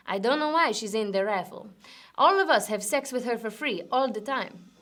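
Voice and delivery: weak mock Spanish accent; a clumsy try at a Spanish accent; bad Spanish accent. Pub regular shrugging off the raffle, in a bad Spanish accent. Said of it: "I know that's not the greatest Spanish accent".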